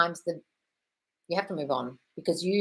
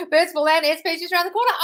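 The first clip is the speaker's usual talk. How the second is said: squealy read; 10 semitones higher, 4 dB louder than usual. Acted. Reading viewer's affirmation, squealing.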